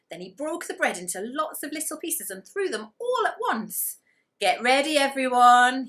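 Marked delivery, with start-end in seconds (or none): 4.4-5.9 loud, higher call to the ducks; rally everyone with a big shout. Acted. Gumboot shouting to all the ducks before the throw, loud. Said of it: "he shouted".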